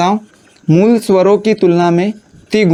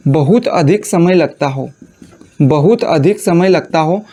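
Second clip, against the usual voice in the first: dictating slowly; 2 semitones lower, slower than usual. Shown as a demonstration. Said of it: "क्या बोलोगे बताओ?".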